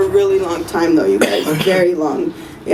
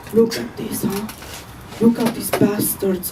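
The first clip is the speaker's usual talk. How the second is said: lightly voiced grumbling grandma; 4 dB quieter than usual. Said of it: "and she's like".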